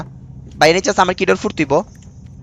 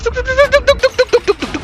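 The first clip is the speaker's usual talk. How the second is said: sing-song urging. Acted. Coaxing character into hiding.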